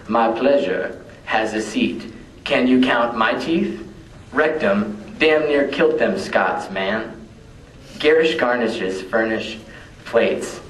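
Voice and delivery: declaimed poem with deliberate pauses; poetry recital. Acted. Poet performing a wordplay poem for an audience, declaimed recital. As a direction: recite each phrase as its own weighted line.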